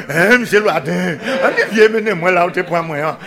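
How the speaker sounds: laughing mock pig's cry calling the name. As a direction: call him like a squealing pig, half laughing. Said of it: "qui a crié".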